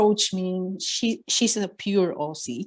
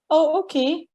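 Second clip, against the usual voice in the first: near tears; 9 semitones higher than usual. Retold or imitated. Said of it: "I was almost crying".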